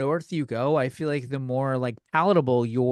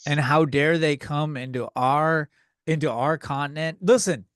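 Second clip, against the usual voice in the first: mock xenophobic rant. I'm just kidding.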